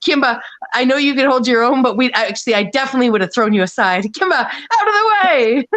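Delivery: playful protective shout. Retold or imitated. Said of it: "I said".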